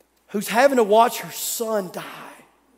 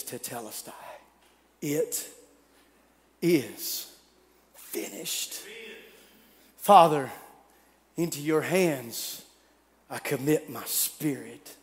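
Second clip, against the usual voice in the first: fading dying whisper; 4 semitones lower, 5 dB quieter than usual. Acted. Dying words, fading to nothing.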